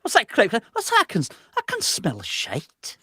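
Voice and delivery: put-on loud, high Scottish accent, slow at end. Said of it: "It needs a Scottish accent".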